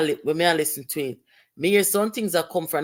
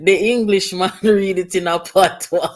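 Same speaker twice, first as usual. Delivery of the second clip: laughing; 3 dB louder than usual. Real, not acted. Quoting while laughing.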